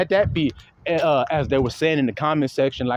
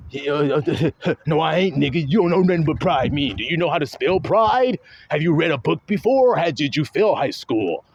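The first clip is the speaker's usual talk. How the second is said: mock proud arguer. Mocking a proud Pharisee arguer.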